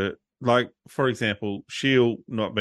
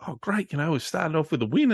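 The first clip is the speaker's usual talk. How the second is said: mock delight; 5 semitones higher than usual. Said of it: "And I was like".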